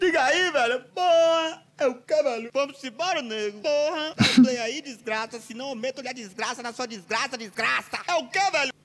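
a hint of a thug; rough street guy. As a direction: bark like a street tough.

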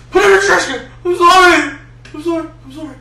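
high, loud, giggling yelps; laughing panic. Real, not acted. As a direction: shriek through laughter. Hiding body, laughing.

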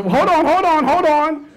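high, slow, urgent stop; high startled correction. Real, not acted. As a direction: stop yourself sharply, high.

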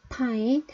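pine with a strong burst of air on the P; P sound demo; aspirated P. Shown as a demonstration. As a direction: pop the P of pine off the lips. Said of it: "입술에 붙는 파열음".

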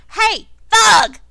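loud, high holler to summon a henchman; shouty yell. Acted. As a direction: bellow an order down the hall. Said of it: "and they yell".

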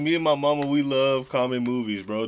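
usual speaking voice

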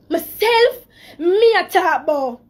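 tearful crack, then pushing on; near tears. Real, not acted. Woman defending herself to viewers on a live stream, crying. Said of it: "I'm gonna try not to cry".

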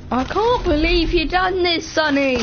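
put-on old English woman. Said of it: "You talk like an old, uh, English woman".

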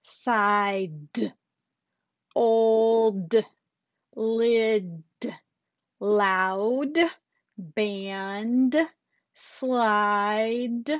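put-on final D sounded out clearly on "Side", "old", "lid"; crisp, audible D at the end of each word; exaggerated word endings. Shown as a demonstration. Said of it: "make sure to do our final D sounds".

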